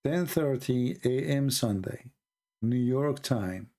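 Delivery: "Ten thirty A M Sunday, New York time" drawn out word by word; slow, spelled out. Shown as a demonstration. Telling the California viewer the time slowly. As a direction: lay it out slowly, like for a child. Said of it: "who care if you are California".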